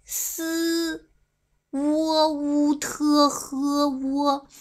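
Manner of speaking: 沃乌特呵沃 read as long, level pinyin sounds; Chinese-style spelling. Shown as a demonstration. Streamer demonstrates Chinese reading of an ID, 沃乌特呵沃 in stretched pinyin. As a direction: drag out 沃, 乌, 特, 呵 like pinyin drill. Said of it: "我念中国的哈".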